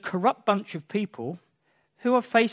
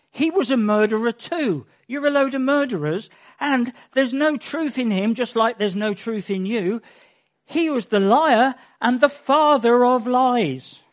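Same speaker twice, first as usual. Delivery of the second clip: forceful denunciation; 3 semitones higher, 4 dB louder than usual. Acted. Preacher voicing Jesus condemning the religious leaders: forceful denunciation. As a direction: drive the accusation home hard.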